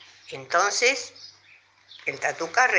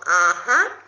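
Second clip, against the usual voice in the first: uninterested; 5 dB louder than usual. A narrator's reading. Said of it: "sin muchas ganas de seguir la conversación".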